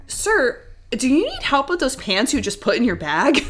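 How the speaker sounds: overly helpful with a laugh underneath; mock polite. Clerk teasing a shoplifter with sweet politeness. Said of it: "one of them that I would always say would be like".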